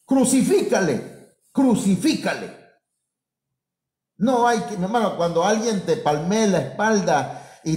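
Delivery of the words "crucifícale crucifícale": mild mock cry of the mob; mock crowd yell. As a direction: shout it like the hostile crowd. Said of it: "a la semana le gritaban".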